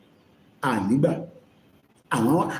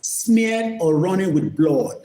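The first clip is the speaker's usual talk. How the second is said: slow definition read; 2 semitones higher, slower than usual. Shown as a demonstration. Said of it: "reads dictionary meaning".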